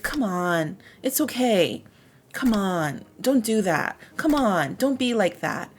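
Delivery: gentle "come on" pushback; mildly disagreeing. Shown as a demonstration. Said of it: "she's disagreeing".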